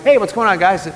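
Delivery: lightly acted cheery hail, starting high; healed man greeting friends. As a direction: call out a casual greeting to the guys. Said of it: "Imagine him like".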